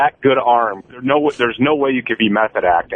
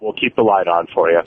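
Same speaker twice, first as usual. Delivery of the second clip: quiet, unhurried radio line; calm announcer read; 5 semitones lower than usual. Shown as a demonstration. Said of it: "I want you to quiet down, take a beat".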